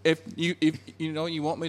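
high, pleading exasperation; put-on frustration at impossible people; acted exasperation.

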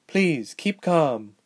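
slow her down, word by word; measured, earnest request; urging calm. A narrator's reading. Calms Ilse rising from seat.

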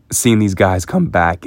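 cracking voice, slow and emotional. Real, not acted. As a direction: voice cracks mid-sentence. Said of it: "my voice just cracked right there".

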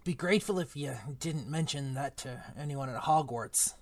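a hint of Hagrid, rueful; lightly voiced gamekeeper regretting his temper. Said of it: "wrong voice for Hagrid".

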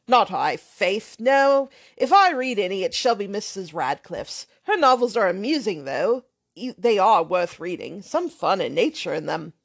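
put-on brash, offhand young man swearing lightly; lightly voiced loud young rake; blustering braggart.

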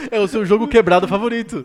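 laughing. Real, not acted. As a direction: tease him while still laughing. Teasing through laughter.

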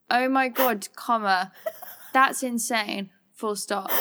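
flat emotionless dictation; monotone voice. Retold or imitated. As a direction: read it out like a robot, no feeling. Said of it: "In, like, the most monotone voice ever".

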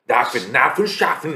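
mock German with a laugh; laughing fake German phrase; German accent. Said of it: "Uyarlıyor böyle onu". (gülerek taklit Almanca)

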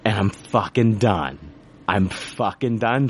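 drawn-out, deliberate, done with it; slow exasperated finality; slow fed-up repeat. Retold or imitated. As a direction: spell out each word, fed up. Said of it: "I finally just flip the fuck out".

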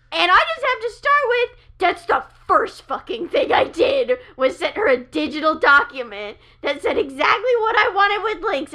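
heated and loud, venting; angry rant. Real, not acted. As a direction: build up the fury, words spilling. Angry rant about her mom.

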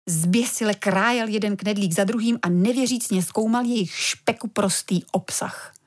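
ordinary delivery

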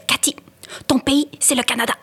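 emphatic retold motherly reply; mother correcting child. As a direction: act out mom setting her child straight.

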